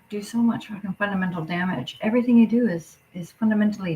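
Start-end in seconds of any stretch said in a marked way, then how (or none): 0.1-2.0 hissed under the breath; a furious whisper. Real, not acted. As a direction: spit it out in a whisper. Ranting at Daddy, hushed aside.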